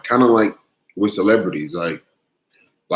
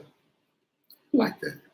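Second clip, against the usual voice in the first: high playful; 14 semitones higher, 6 dB quieter, much slower than usual. Real, not acted.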